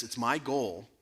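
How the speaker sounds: lightly voiced professor, slowing at the end; ominous professor. Professor announces his goal to the class, quietly ominous. Quotes professor's threat to Christian students.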